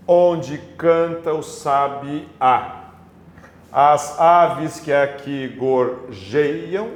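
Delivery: slow scansion, leaning on "mei" in "palmeiras" and final "á" in "sabiá"; deliberate metrical reading, landing on stressed "sabiá" and "lá"; up to the stressed syllable. Shown as a demonstration. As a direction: measure out "palmeiras" and "gorjeiam" slowly, marking each strong syllable. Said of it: "contar somente até a sílaba mais forte".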